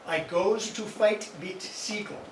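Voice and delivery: put-on half-hearted German accent on a song title; attempted German accent. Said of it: "tried to do that with German accent".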